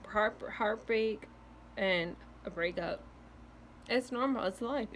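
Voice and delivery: interrupted by hiccups. Real, not acted. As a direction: speak between hiccups. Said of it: "stop with the freaking hiccups".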